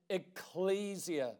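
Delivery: Ecclesia said slowly and softly, each syllable clear; Greek word spoken slowly. Shown as a demonstration. Preacher teaching the congregation a Greek word, slow and soft. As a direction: lay out Ecclesia gently, syllable by syllable. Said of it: "is the Greek word ecclesia".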